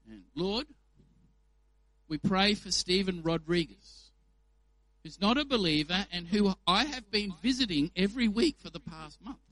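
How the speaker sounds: mock humble-brag at the prayer group; show-off prayer. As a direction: pray aloud to impress the group, a touch pompous. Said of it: "here's a prayer that might be one where I'm praying and practicing my righteousness".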